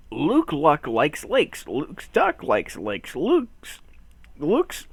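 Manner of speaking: slow, deliberate word by word; slow, careful twister. Pretend. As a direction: pick your way through each word. Picking carefully through a tongue twister.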